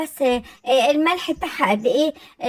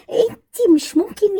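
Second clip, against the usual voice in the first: haughty; 8 semitones higher, 3 dB louder than usual. Acted. Mother-in-law quarrel, posh insult.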